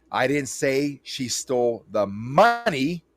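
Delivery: slow, with "money" lifted at the end; stress on MONEY. Shown as a demonstration. Last take of the emphasis demo, slow with "money" lifted. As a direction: land the weight on "money". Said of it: "whichever word I accentuate".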